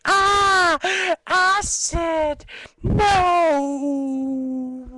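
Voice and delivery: high, loud panicked cry; mock panic. Caught in acid rain, mock panicked cry. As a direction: yelp as if acid burns your arm. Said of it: "And you're like".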